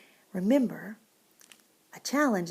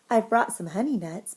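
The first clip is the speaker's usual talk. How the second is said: grinning badger; 7 dB louder than usual. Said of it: "Badger says with a grin".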